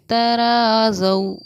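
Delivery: तराज़ौ with ज़ौ said soft and quick, drawn out. Shown as a demonstration. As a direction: say तराज़ौ gently, the ज़ौ stretched one alif. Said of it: "नरम आवाज़ के साथ जल्दी अदा करेंगे". (नरम आवाज़ में जल्दी "तराज़ौ")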